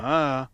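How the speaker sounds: "ma," drawn out slowly on another Mandarin tone; Mandarin tone demo. Shown as a demonstration. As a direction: exaggerate the tone on "ma," for a learner. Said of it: "they don't make it that dramatic".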